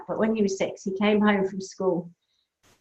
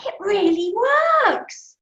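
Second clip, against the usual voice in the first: put-on amazed child; 9 semitones higher, much slower than usual. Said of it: "he goes".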